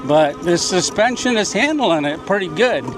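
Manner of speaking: jolted, shaking voice on rough ground; shaky voice. Real, not acted. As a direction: voice shaking from a bumpy ride. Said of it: "You can hear my voice shaking".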